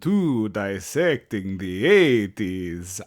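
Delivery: slow, drawn-out villain announcer; grandly pompous podcast intro; announcer bit voice. Pretend. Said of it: "I promise I'm not going to continue this bit".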